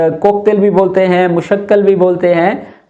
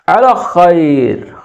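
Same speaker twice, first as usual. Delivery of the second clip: slow demo; much slower than usual. Shown as a demonstration. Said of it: "यानी कि अल खैर".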